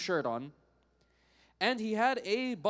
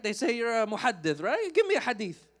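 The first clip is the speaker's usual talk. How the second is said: loud, pushy, higher-pitched retold challenge; rude demand; 4 semitones higher, 5 dB louder than usual. Drunk man challenging the scholar before his students, very rude. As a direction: press him rudely, rising on the demand. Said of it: "in a very rude way".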